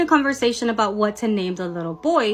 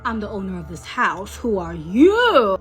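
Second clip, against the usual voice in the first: put-on eerie ghost girl; 2 semitones lower than usual. Ghost girl confronting the daughter in her house, eerie challenge. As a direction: draw out the final question menacingly.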